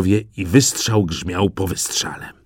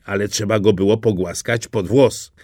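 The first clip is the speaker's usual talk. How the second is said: usual speaking voice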